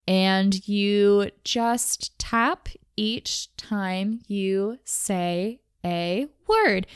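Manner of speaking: very slow, one word at a time; deliberately slowed down. Shown as a demonstration. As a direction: space out each word as if tapping it on your fingers. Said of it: "that tends to help me slow down".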